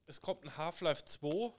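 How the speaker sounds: loud, offhand company announcement. Retold or imitated. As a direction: announce it loudly, casually. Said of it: "so ungefähr halt".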